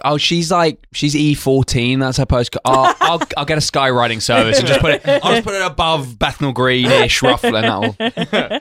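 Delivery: slow, drawn-out dopey bloke; lightly voiced clueless suitor; mock smug guy.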